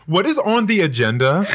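hammed-up posh accent, every word formal; mock posh accent. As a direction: put on a fussy posh accent. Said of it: "please continue on with the accent".

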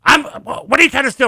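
put-on high, accusing old woman; a touch of the suspicious neighbour lady; accusing older lady. Older neighbour accusing her of stealing, high and suspicious. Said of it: "she's older lady".

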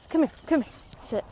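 high loud call; calling the dog. Real, not acted. Owner calling her dog back, loud call.

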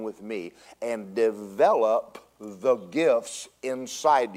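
slow, weighty prophecy in measured phrases; prophetic utterance. Real, not acted. Preacher gives God's message to the congregation, solemnly prophesying. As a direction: proclaim it slowly, pausing between phrases.

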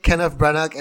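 "Branagh" said with a hard G sound at the end, "bran-a-ga". Real, not acted. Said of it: "you don't pronounce the G in Kenneth Branagh".

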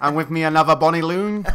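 put-on jokey Scottish-accented introduction; attempted Scottish accent. Co-host introducing the other host, attempted Scottish accent. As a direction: present your partner in mock Scottish. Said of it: "introduce the podcast in the most Scottish accent".

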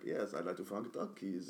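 low, slow, quiet dubbed voiceover; deadpan translator dropping in softly over the original; falsely translated voiceover. Acted. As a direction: read it like a bad dub, low and slow. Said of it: "it'd be more, more of, like, a Cockney voice".

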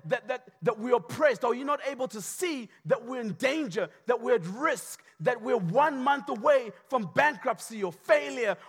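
rising, pressing questions ending in a high shout; frantic friend begging you to see the danger; alarmed onlooker's mounting panic; panicked plea. Acted. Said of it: "they're going".

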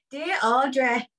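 letter read in a put-on northern accent; lightly performed northern English accent. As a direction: voice the writer as a Northerner. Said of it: "they're from up north".

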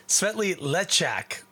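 Svetli Lechak said slowly, copying the server's Czech sounds; server's pronunciation. Retold or imitated. Sampling beer, copying the server's Czech pronunciation slowly. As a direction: carefully echo the server's "Svetli Lechak", drawn out. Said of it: "uh, server said it".

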